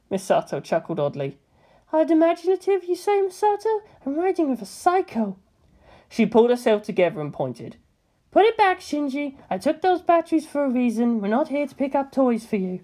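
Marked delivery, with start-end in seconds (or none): 1.9-5.4 higher, wry muttered aside; dry disbelieving aside; Misato's voice. A narrator's reading. Misato chuckling oddly. 8.3-12.8 higher, firm woman giving orders; stern Misato. A narrator's reading.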